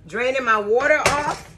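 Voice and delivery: repeating it with a laugh. Real, not acted. Cook amused at her own words to viewers, laughing. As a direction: chuckle through the phrase.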